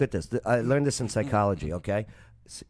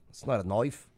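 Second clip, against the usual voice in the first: put-on Australian accent. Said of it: "Can you do an Australian accent?".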